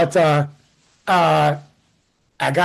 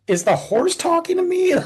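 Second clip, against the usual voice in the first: mock incredulous shout; 9 semitones higher than usual. Mocking the Mountie on horseback.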